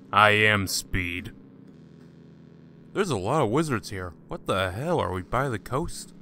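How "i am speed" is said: mock epic, very slow; slow dramatic boast. Gamer boasting to the camera in a slow mock-epic voice. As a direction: drag out each word like a movie hero.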